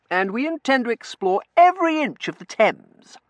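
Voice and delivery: high, loud, emphatic pledge; ringing, heroic promise; earnest gallant vow. A narrator's reading. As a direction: declare it like an eager suitor. Young man makes a grand vow.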